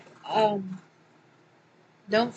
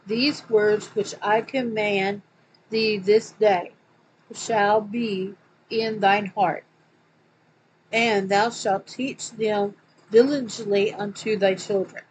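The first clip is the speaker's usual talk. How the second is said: scripture reading; 3 dB louder than usual. Acted. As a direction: read it out like a preacher. Reads scripture quote aloud.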